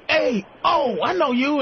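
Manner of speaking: high-pitched, over-eager recognition; imitated excited stranger; excited fan. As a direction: play a star-struck dude spotting someone.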